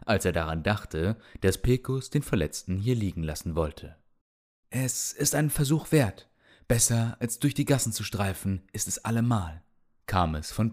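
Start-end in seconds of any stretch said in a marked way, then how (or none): 4.7-9.6 lightly voiced old healer; very old man.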